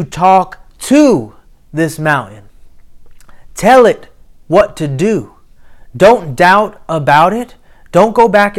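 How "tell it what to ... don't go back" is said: emphatic preaching. Real, not acted.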